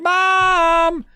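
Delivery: high, drawn-out mock wail; tattling kid. Joe running inside to tell Mom, high mock whine. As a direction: call out like a kid telling on someone.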